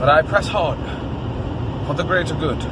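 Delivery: lofty, heroic proclamation; grand formal speech. Pretend. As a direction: declaim it nobly. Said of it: "I'm inspired to talk differently".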